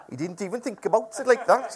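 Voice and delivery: lightly imitated Morpeth accent; Morpeth builder's accent. Preacher retrying campsite owner's line, light Morpeth accent. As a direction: have another go at the Morpeth accent. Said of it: "keep doing this accent".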